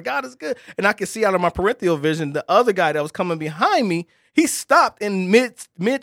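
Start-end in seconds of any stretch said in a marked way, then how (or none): 0.0-0.6 loud praise. Retold or imitated. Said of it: "getting louder and louder".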